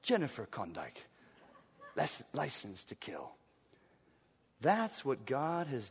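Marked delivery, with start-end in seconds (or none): 0.0-3.3 low, soft suave spy introduction; James Bond face. Pretend. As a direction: purr it like a cool agent. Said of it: "James Bond face and say".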